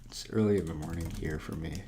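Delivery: usual speaking voice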